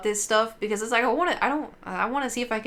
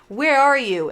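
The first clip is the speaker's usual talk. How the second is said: higher, louder TV ghost-hunter call; imitating Ghost Adventures host; 6 semitones higher, 6 dB louder, slower than usual. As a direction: ham up the TV investigator. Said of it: "in Ghost Adventures they".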